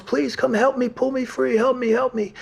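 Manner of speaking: put-on high, loud, desperate old man calling for help; a trapped old man shrieks to the girls for help; old man yelling for help. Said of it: "he yelled to the girls".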